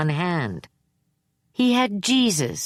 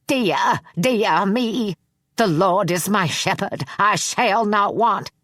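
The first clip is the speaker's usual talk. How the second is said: frightened prayer; 4 semitones higher, slower than usual. Acted. Frightened man begins praying.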